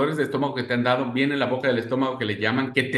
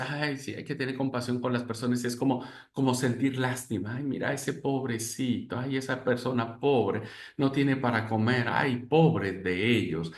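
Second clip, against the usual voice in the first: mock pity; 5 dB quieter than usual. Mocking false pity quote.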